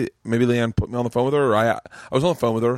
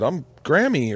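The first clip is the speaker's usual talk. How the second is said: lightly imitated Southern granny; Southern accent; 5 semitones higher, slower than usual. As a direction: put on a higher Southern grandma voice. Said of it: "have a Southern accent".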